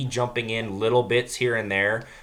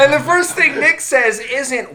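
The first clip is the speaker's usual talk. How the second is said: laughing while talking; 13 semitones higher, 6 dB louder than usual. Real, not acted.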